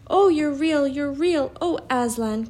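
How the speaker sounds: high, loud, overjoyed exclamation; joyful cry. A narrator's reading. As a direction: cry out in relief and joy. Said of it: "cried Lucy".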